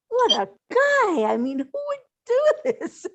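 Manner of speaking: laughing through tears. Real, not acted. Emotional memory of late friend.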